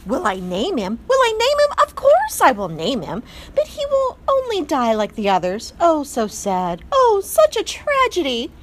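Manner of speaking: put-on high, loud overwrought French accent; melodramatic French mother. A narrator's reading. Mother mouse answering the father, melodramatic French accent. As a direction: swoon through it like a tragic diva.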